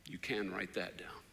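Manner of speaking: soft whisper after the quote; hushed aside to the listeners. Real, not acted. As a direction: lean in and whisper it. Aside to the congregation.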